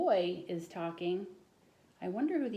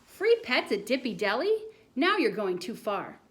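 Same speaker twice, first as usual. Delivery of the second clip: a touch of a stern teacher; incredulous teacher; 3 semitones higher, 7 dB louder than usual. Acted. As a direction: draw out the doubt. Teacher doubts boy's tale.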